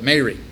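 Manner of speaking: "Mary" with a long ay, MAY-ree; old-fashioned Mary. Retold or imitated. Mentor's habitual way of saying it, "Mary" as MAY-ree. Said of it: "he would always call it Mary".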